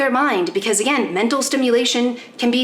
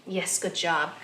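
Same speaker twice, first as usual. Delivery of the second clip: soft soothing voice; 10 dB quieter than usual. Real, not acted. Soothing dog while trimming.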